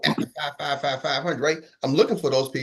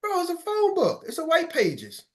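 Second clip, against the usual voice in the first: exasperated high; 11 semitones higher, slower than usual. Real, not acted. Exasperated speaker mocks coworkers, voice jumping high. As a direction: pitch jumps way up in disbelief. Exasperated rant about phone book.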